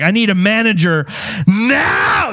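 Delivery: a hammed-up livid demand; demanding a manager at the front desk; mock demand. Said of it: "I scream at the".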